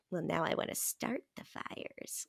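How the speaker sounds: whispered, scheming line; mischievous whisper. Retold or imitated. Confessing to a friend her urge for chaos, whispered scheming. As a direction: whisper it like a little arsonist. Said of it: "I was like".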